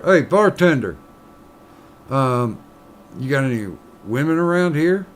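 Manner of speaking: lightly voiced pushy miner; miner in a joke.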